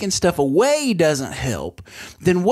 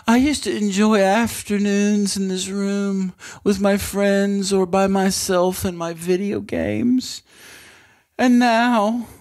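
higher, drawn-out monotone reminiscing; mock lament; 4 semitones higher than usual. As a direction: play up a wistful loss of better days. Mock lament about losing room.

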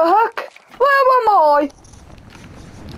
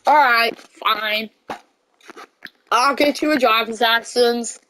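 lower, giving-in father; lightly voiced tired dad; reluctant dad; 8 semitones lower, 3 dB quieter than usual. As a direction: sigh and give in. Dad gives in.

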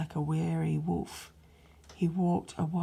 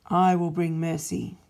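louder, firm resolve, each I will stressed; God's loud proclamation; 7 dB louder than usual. Acted. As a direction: announce the plan like a decree. God replies.

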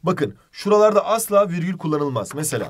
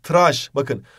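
English word; 3 dB louder, much slower than usual. Shown as a demonstration. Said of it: "İngilizce'de böyle yazıyor".

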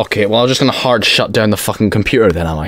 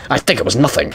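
lightly mimicked game villain; hint of a villain voice; Albert Wesker; faster than usual. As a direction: echo the line as a light villain impression. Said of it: "Albert Wesker".

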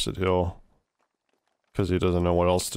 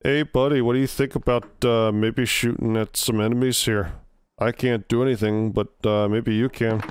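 put-on light Canadian accent, a bit higher; casual Canadian buddy voice; 3 semitones higher than usual. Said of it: "try to do a Canadian accent".

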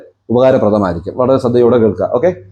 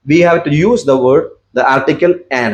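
slow dictation; much slower than usual. Shown as a demonstration. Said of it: "teacher slow dictation".

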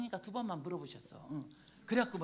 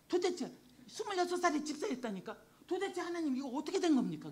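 raised-pitch, insistent questioning; retold questioning of God; 4 semitones higher than usual. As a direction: re-enact taking it up with Jesus, puzzled. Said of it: "제가 질문했어요". (하나님께 따져 묻는 말투 재연)

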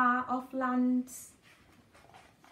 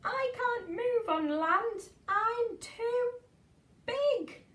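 lightly voiced, higher plaintive whale; whale moaning; 11 semitones higher, slower than usual. Stranded whale moaning to the snail, mild plaintive tone. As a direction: whine it a little, feeling stuck. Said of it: "moaned the whale".

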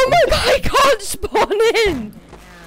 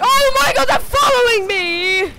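scared horror game streamer. Real, not acted.

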